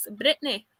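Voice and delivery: amateur imitation of a Scottish accent; attempted Scottish accent. Shown as a demonstration. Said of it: "or I think I can anyways".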